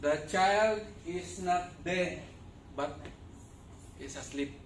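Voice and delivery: slow, each word weighed; slow emphatic quote. Retold or imitated. Preacher slowly repeating Jesus' words, slow and weighty. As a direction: say it slowly, like a calm promise. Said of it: "Yun ang sabi ni Jesus Christ".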